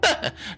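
冷笑. Acted. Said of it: "这俩家伙冷笑一声".

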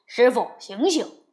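urgent loud call to wake someone. A narrator's reading. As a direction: call to your fainted master. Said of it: "连声叫道".

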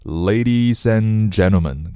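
"Ladies and gentlemen" slowly run together; linked words. Shown as a demonstration. Teacher modelling the opening for learners, slow and linked. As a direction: link "Ladies and" without a break, stretched out. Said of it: "我们连起来".

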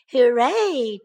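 loud little cheer; hooray with a burst of glee. A narrator's reading. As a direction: cheer it out like a delighted cub. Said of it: "cheered Baby Bear".

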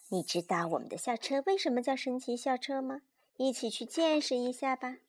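put-on lively, measured read-aloud for small children; children's story narration. A narrator's reading. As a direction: read a picture book to a child. Reads a bedtime story aloud.

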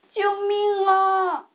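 a lightly voiced gruff cry; rough heavy voice. A narrator's reading. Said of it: "水獭们的声音又粗又重". (略带粗重的呼救)

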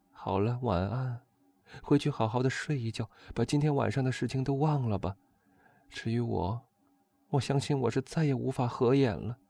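high but subdued woman's voice; countess bidding goodnight. A narrator's reading. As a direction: wind down into a worried, high-pitched farewell.

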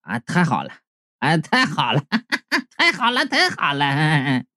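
soft, giddy repeats with a giggle; dazed blissful murmur. A narrator's reading. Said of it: "来来回回只有三个字儿不停的循环". (幸福得飘飘然地喃喃自语)

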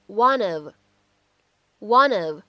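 "one of" linked as "wunnuv"; linking. Shown as a demonstration. Teacher demonstrating linking on one of. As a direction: run "one" into "of". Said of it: "可以做连读".

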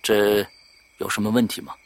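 soft, low question; hushed reply. Acted. Man answering the visitor on the path, hushed. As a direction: ask it back quietly. Hushed private talk outside.

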